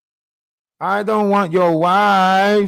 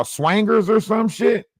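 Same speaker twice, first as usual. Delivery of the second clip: mocking shout; 5 semitones higher than usual. Real, not acted.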